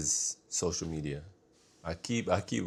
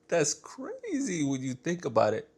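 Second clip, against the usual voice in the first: mock dramatic; 8 semitones higher than usual. Repeated catchphrase, put-on take.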